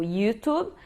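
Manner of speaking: "YouTube" with an English-style Y glide; Americanized pronunciation. Shown as a demonstration. Teacher shows one accepted variant, Americanized "YouTube". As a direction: say "YouTube" slowly, as Americanized yoo-tube. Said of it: "tem uns que fazem um som americanizado".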